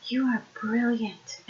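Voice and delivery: retold, understated amazement; a touch of awed admiration; amazed. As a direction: act out quietly marvelling at someone. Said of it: "with that look of amazement".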